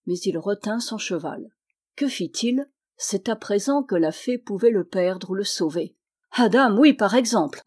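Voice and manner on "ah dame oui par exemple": a raised, eager exclamation; eager crowd outburst. Acted. The listeners interrupting Simon, eager and raised. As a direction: blurt it out together. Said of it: "interrompit l'assistance tout d'une voix".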